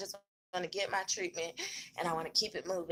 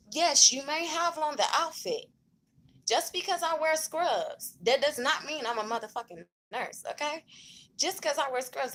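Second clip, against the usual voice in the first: indignant; 6 semitones higher than usual. Real, not acted. Indignant rant about scrubs.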